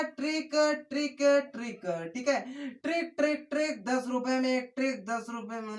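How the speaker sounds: playful street vendor call; a hint of a samosa seller hawking his trick; hawker's call. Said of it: "समोसा नहीं बेच रहे हैं".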